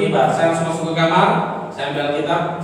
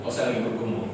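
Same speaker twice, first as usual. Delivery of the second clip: quieter tone; 2 semitones lower, 6 dB quieter than usual. Retold or imitated. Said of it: "Dengan nada sedikit kecil".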